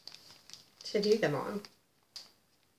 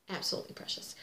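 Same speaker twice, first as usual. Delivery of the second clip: whispered echo; 3 semitones lower, 10 dB quieter, much faster than usual. Real, not acted. Repeating her praise of the gnome chart, whispered. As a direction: whisper "Absolutely precious" softly as an echo. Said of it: "Are they not absolutely precious?".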